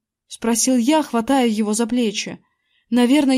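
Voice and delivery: ordinary delivery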